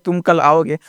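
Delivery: कल with a short uh vowel; correct pronunciation. Shown as a demonstration. Teacher gives learners the proper sentence, correct short कल. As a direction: say कल short, as kal. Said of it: "तो क्या बोलते हैं".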